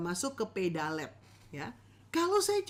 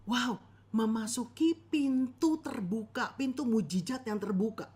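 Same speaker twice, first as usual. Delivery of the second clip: impressed listener. Retold or imitated. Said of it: "orang dengar khotbahnya".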